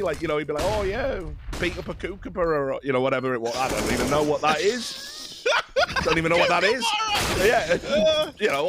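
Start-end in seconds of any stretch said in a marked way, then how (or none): 0.7-2.7 lightly put-on Australian accent; fake Australian. Friend quotes his fake-Australian mate's mad lies, mock Australian accent. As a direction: imitate a mate faking an Australian accent. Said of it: "pretending to be an Australian man".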